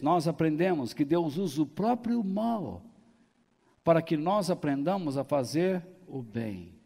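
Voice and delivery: ordinary talk, nothing marked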